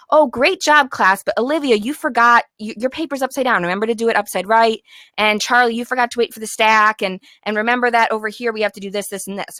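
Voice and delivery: upbeat, friendly praise that turns to a gentle reminder; kind correction. Shown as a demonstration. Teacher kindly correcting a class after paper passing, upbeat and gentle. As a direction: correct them kindly, no scolding. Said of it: "You just kindly say".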